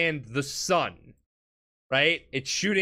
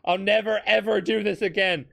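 slightly raised, hurried mock pleading; mock frantic begging; 3 semitones higher, faster than usual. Beaten villain pleading with Jotaro to stop, mock frantic begging. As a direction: rattle off a retold plea for mercy.

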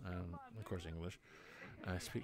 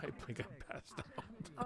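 laughing; 13 semitones higher, 5 dB quieter, slower than usual. Real, not acted. Laughing at blacking out.

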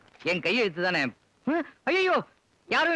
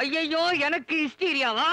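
slow aghast cry; 3 semitones higher, slower than usual. Acted. Husband aghast at being called hysterical.

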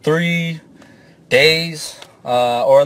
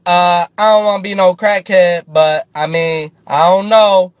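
tempting inner voice; 2 semitones higher than usual. Pretend. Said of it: "The other half of me was like".

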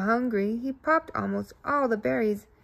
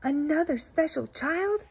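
exclaiming; 5 semitones higher than usual. Acted. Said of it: "exclaimed Bouncer".

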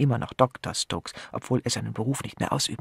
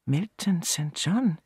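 slow puzzled repeat; 5 semitones higher, slower than usual. A narrator's reading. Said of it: "wiederholte Kanonikus Pennyfather".

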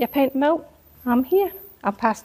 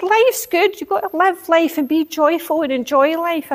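much higher, fervent preachy voice; retold preaching; 8 semitones higher than usual. Urging miserable family to enjoy life, fervent preaching. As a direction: preach joy at them with fervour. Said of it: "I started to almost preach to them".

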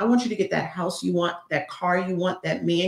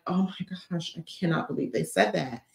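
mock hurt, soft; 7 dB quieter than usual. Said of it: "I'm not gonna be like".

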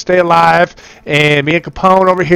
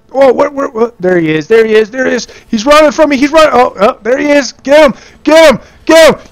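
much higher, building to a loud shout; frantic chase shouts; 8 semitones higher, 4 dB louder than usual. Real, not acted. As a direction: yell at the team to get him. Chasing fleeing boss.

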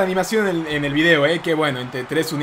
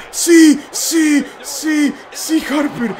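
cheering yes; 10 semitones higher, 6 dB louder, much slower than usual. Real, not acted. His finisher lands.

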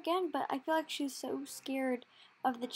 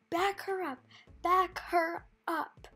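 mock yell, higher, second one drawn out slow; retold screaming; 3 semitones higher, 4 dB louder than usual. Trainer ordering rider to back the horse up, mock scream. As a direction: imitate a trainer's urgent yell, not full force. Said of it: "my trainer starts screaming".

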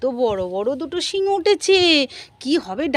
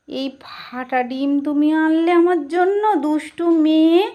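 mock scolding; 3 semitones higher, slower than usual. Scolding Mishtu for bringing a cracked egg, mock outrage. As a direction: scold a naughty child in play, slowly.

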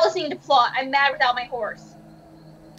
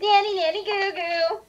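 whiny voice; 3 semitones higher than usual. Pretend. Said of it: "I can't get a whiny voice".

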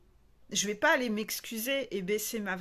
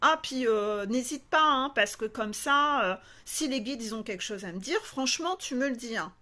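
imitated eager client; 3 dB louder than usual. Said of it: "c'est ce que tu dis toujours en début de coaching".

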